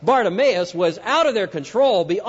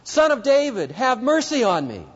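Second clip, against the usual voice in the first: high, urgent repeated plea; shouting more; 4 semitones higher than usual. Retold or imitated. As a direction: cry out again over the crowd. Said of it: "he shouted all the more".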